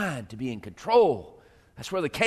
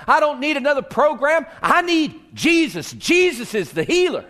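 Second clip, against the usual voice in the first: higher, louder, pleading cry; impassioned preaching; 7 semitones higher, 4 dB louder than usual. Real, not acted. Pastor voicing a believer's desperate need, impassioned. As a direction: preach it with rising passion.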